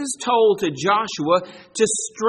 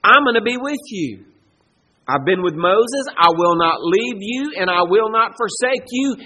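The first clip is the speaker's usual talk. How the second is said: voicing God's command; 2 semitones higher, 5 dB louder than usual. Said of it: "God has just told Joshua".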